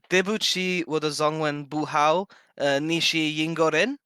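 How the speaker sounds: slow, careful Mandarin with an English accent; sounding out Mandarin phrases slowly and carefully; foreigner speaking mandarin. Shown as a demonstration. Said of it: "I can say in Mandarin".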